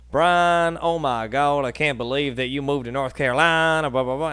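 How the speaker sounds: loud, excited imitation of her friends; gushing friends. Friends gushing over his accent.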